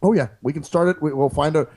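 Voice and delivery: lightly voiced mock president on a call; calm, halting politician's phone manner, barely shifted; Obama prank call. Pretend Obama calling a terrorist on the phone, lightly voiced. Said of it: "it's Barack Obama from America".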